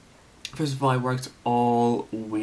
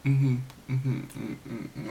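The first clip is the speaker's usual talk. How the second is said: imitated awkward kiss noises; 3 dB quieter, slower than usual. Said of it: "they were like".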